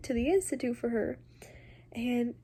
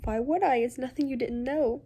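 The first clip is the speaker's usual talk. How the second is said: Charlotte retorting; 2 semitones higher, 4 dB louder than usual. Acted. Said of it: "she said".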